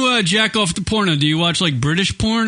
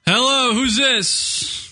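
sing-song hello; 8 semitones higher, much slower than usual. Real, not acted. Answering caller on air.

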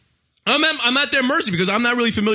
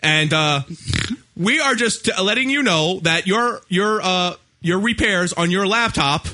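lightly voiced robotic recording, slow; mock automated message; imitating automated call; 2 semitones lower than usual. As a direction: read it like a canned phone message. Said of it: "automated call".

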